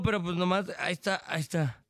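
mock ventriloquist belly voice; stomach voice. Shown as a demonstration. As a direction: push the words down into the stomach. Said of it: "Estoy hablando con el estómago".

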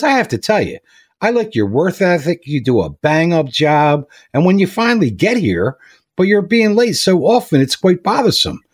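a boss gently chewing out a late worker; stern boss. Retold or imitated.

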